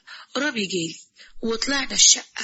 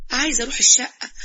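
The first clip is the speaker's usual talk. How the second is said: nervous little laugh through the words; embarrassed giggle; laughing sheepishly; 3 semitones higher, 5 dB louder than usual. Acted. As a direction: laugh it off while asking. Daughter sheepishly asks father.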